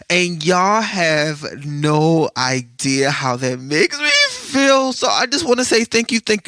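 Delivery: thrilled, drawn-out gush of gratitude; excited gush. Real, not acted. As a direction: let the thrill lift the last words. Overjoyed at 1000 downloads.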